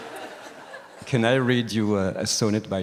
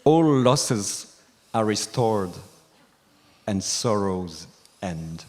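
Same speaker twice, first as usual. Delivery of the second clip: measured, declaimed closing couplet, falling at the end; sonnet recital; 3 dB louder, much slower than usual. Acted. Closing a sonnet read to the teacher, poem recital. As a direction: land the poem's last line with weighty pauses.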